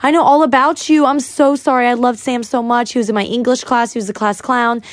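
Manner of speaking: retold gushing run-on; going on and on. Customer recognizing her late friend's sister, retold gushing. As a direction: imitate someone rattling on about a friend. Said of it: "she's going on and on".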